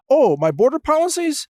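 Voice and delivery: high-pitched echo of the question; mock candidate. Candidate asked about the border, mock stalling. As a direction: lightly mimic a candidate stalling.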